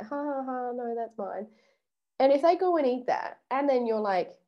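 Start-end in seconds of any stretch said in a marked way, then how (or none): 0.0-1.5 giggling through a soft no; giggling, not meaning the no; giggly no. Shown as a demonstration. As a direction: laugh it off instead of refusing. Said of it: "That's kinda like".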